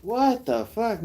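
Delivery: high, slow drawn-out disbelief; mocking a reactor's shock; mock outrage. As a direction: stretch out fake disbelief. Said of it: "And it's like".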